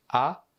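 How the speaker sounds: un A bien ouvert, comme dans âme. Shown as a demonstration. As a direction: ouvrir grand la bouche sur A. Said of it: "Une prononciation plus ouverte". (A ouvert comme dans patte)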